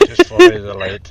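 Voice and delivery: loud urgent call; shouting. Real, not acted. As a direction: yell the directions over the noise. Shouting directions while fleeing.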